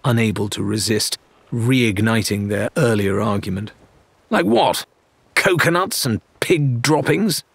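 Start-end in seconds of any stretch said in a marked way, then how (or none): 4.3-7.4 mocking. A narrator's reading. Rathbone mocks Mercia.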